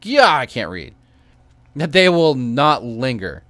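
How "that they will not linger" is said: a hint of a guilt-stricken mage; mild mock anguish, a little louder; lightly voiced despairing magister. Player voicing the magister's despair to the priest, mildly anguished. Reads quest dialogue aloud.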